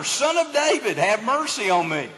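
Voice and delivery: high-pitched start, mild mock cry; retold shout. Blind man cries to Jesus for mercy, mild retold shout. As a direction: call out high, then settle, without real volume. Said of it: "But he shouted louder".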